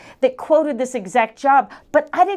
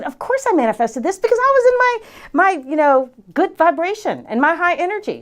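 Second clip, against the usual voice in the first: high, emphatic self-congratulation; elated; 5 semitones higher than usual. Retold or imitated. Coach retelling her reaction to the job call, elated. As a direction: crow about it in a lifted voice.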